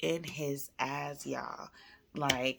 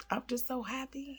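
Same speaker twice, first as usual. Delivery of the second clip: put-on high, small child voice; high-pitched imitation of a moved child; imitating tearful happy son; 9 semitones higher, 3 dB quieter than usual. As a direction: voice a kid overcome with joy. Son near tears of joy, retold.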